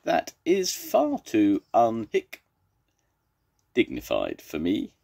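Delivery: high protest broken mid-word by a hiccup. Acted. Zebra refuses an undignified cure, hiccuping. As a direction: protest grandly, then hiccup inside the word. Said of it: "Zebra's got hiccups".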